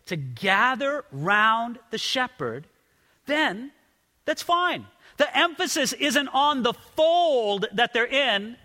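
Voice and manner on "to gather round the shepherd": "gather" leaned on, each word spaced out; slow and deliberate, weight on "gather"; slow, stressed repeat. Shown as a demonstration. Pastor drills a phrase for the congregation, slow and stressed. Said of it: "remember that phrase".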